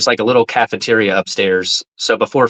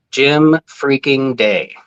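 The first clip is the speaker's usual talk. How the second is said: exasperated; 3 semitones higher, much slower than usual. Real, not acted. Exasperated naming of reporter.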